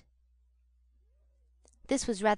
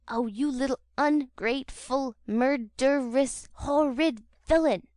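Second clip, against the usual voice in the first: higher, loud, drawn-out abuse; angry scream; 4 semitones higher, 4 dB louder, slower than usual. A narrator's reading. Charlotte beating Oliver, screaming abuse at him. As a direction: scream insults at the boy with every blow. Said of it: "screamed Charlotte".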